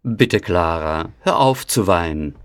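put-on kindly old uncle, reassuring; soothing uncle. A narrator's reading. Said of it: "sagt Onkel Drosselmeier".

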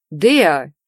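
calling out. A narrator's reading. Husband runs in, calls out.

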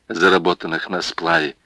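ordinary delivery

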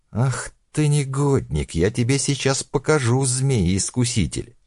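put-on high furious old woman scolding; shrill grandma threatening, slowing at the end; shrill nagging grandma. Old woman attacks with fists.

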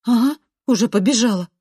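snapping back. A narrator's reading. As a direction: snap back mockingly. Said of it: "огрызаюсь я". (огрызается)

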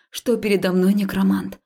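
ordinary delivery, nothing marked

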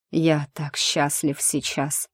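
a hint of an exhausted man speaking; wounded man's voice.

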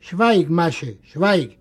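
usual speaking voice

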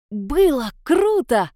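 slow, drawn-out delighted gasp; admiring. Acted. Vera praising the girls' rescue, slow and admiring. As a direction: savour every word in awe. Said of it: "восхищённо произнесла Вера".

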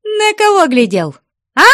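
high, loud jealous yell; furious shout. Acted. Jealous woman screaming at her lover, furious. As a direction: scream at him in a jealous fury. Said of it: "неистово лютуя, кричала Устинья".

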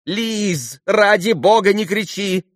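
high, agitated mother's cry; shouting plea. A narrator's reading. Khokhlakova begs Lise to stop, shouting herself. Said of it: "это я кричу".

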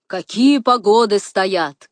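slow, loud, drawn-out admiration; savoured, emphatic praise; admiring exclamation. A narrator's reading. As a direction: marvel at it, stretching the words. Игумен восхищается погодой и полями.

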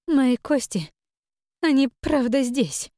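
high, eerie ghostly spirit voice; otherworldly voice. Acted. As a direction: speak like a drowned spirit from beyond. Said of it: "тихим потусторонним голосом проговорила Навка".

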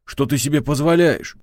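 high, loud outraged demand; indignant. Acted. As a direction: call her out, offended. Man outraged after slap.

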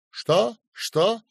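high, thin and cracked, a sick man's voice; loud, high and straining, barely holding together; weak, thin, cracked voice. A narrator's reading. Feverish patient asking his friend, in a thin cracked voice. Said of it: "слаб, тонок и надтреснут".

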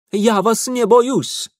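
high, loud, slow defiance; defiant. A narrator's reading. Ingvar defying Mitya, slow and loud. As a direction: plant your feet and declare it.

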